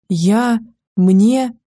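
gasping, voice cracking from running; panting words that won't come out; out of breath. A narrator's reading. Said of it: "голос позорно срывался от недостатка кислорода".

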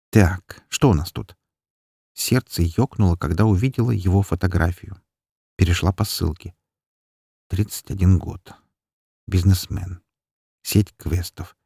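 ordinary delivery

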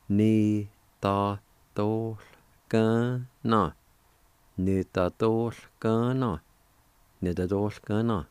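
Ni ta tol ka na, each syllable spoken separately and clearly; syllable-by-syllable demo. Shown as a demonstration. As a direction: sound out Ni, ta, tol, ka, na one at a time like a teacher. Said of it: "you can pronounce the L sound with the D A like this".

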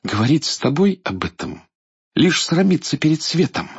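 high, proud princess voice; a princess defying the tyrant; defiant princess. Acted. Царевна гордо отвечает идолу. (гордая царевна)

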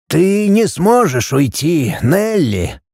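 put-on slow, sad old man's voice; sadly. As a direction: break it to her gently and sadly. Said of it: "грустно произнёс Кофлер".

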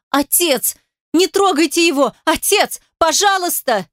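high frantic pleas; desperate pleading. A narrator's reading. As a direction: beg in panic. Daughter pleads with father, desperate.

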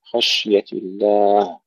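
slow خشية الله with a vowelless, airy sh; spread shin. Shown as a demonstration. Teacher modelling for pupils, slow خشية with unbounced sh. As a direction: let the sh of خشية spread, no bounce. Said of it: "نهمسها مع التفشي".

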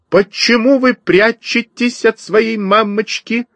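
very high, lilting mother bird; chirping sparrow. A narrator's reading. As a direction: chirp it high, coaxing the little ones. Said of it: "продолжала щебетать воробьиха". (высоким щебечущим голоском)

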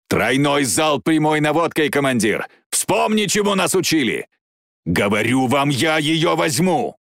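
urgent pilot's call, pitch rising; insistent radio shout to the commander; battle urgency. Acted. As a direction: call it out firmly in combat.

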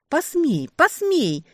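high, loud urging cry of посмей twice; an inner voice screaming for it; wild yell. A narrator's reading. Part of her yells at her to give in, loud and wild. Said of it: "орала дурным голосом".

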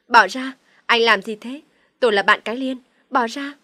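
loud, indignant protest; resisting yell. A narrator's reading. Woman fighting off her friend's boyfriend, yelling in resistance. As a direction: raise the voice to fight someone off. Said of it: "Phượng gào lên chống cự".

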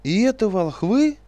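very high, loud squeaky aghast cry, slowed; aghast at what he hears; horrified question. A narrator's reading. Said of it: "в ужасе вопрошал".

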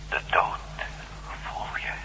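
very soft, breathy whisper. Acted. Explorer in the tomb whispering about death. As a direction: let it hang, eerie.

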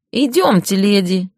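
nasal, altered man's voice; nasal disguised male voice. Acted. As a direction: twang it through the nose, disguised. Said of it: "прогнусавил явно изменённый мужской голос".

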